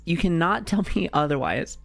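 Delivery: hushed, unvoiced insistence; whisper. Real, not acted. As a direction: whisper it like a secret. Insisting about the mouse.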